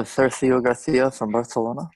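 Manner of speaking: demonstrating a lisped th in Barcelona; Spanish lisp. Shown as a demonstration. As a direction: lisp the s and c sounds in "Sergio Garcia from Barcelona" as th. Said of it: "Does he have a lisp?".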